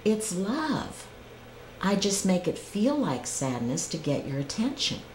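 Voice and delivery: gently voiced divine reply, understated; calm, loving answer. God answers the screaming driver, calm and loving. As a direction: answer the outburst calmly and lovingly. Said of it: "a beautiful, calm, loving answer".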